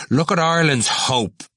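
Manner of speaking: high, mocking exclamation; scornful. A narrator's reading. Cranley mocking him before the others, scornful. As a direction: sneer it for the onlookers. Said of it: "he said with scorn to the others".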